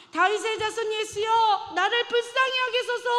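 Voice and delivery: high, loud plea to Jesus; a blind beggar's loud cry for mercy; desperate loud cry. Acted. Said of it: "미친 듯이 큰 소리를".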